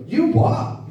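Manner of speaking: high, sharp mock disbelief; incredulous retort. To the headmaster, a high incredulous mock retort. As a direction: snap it back in scornful disbelief.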